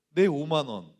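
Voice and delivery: loud, aggrieved cry over the lost money; mock outraged cry. Preacher recalling his childhood self, mock outraged cry. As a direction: wail it like a cheated kid.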